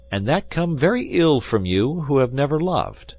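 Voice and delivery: lightly voiced D'Artagnan; reproachful friend. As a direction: chide Athos gently.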